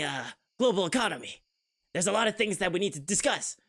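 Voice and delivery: put-on a sincere young hero giving a speech; lightly voiced heroic Obama with a rising lilt; anime protagonist Obama. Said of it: "anime protagonist Obama is way easier for me".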